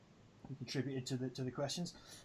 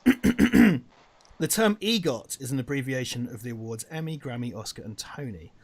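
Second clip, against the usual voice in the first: quiz host read; 2 semitones lower, slower than usual. Acted. Reading quiz question grandly.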